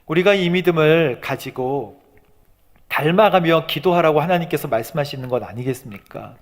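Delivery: ordinary delivery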